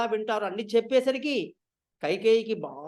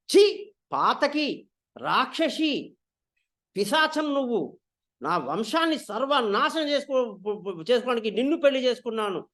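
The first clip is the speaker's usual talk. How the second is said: angry shout. Acted. King cursing his queen, mildly angry. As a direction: curse her and push her away. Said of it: "అని గట్టిగా అరిచేశాడు".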